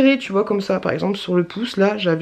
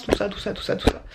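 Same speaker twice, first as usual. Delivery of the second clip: whisper; 5 dB quieter than usual. Real, not acted.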